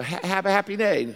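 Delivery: put-on carefree good cheer; mock cheeriness. Preacher parodies people when things go great, mock cheery.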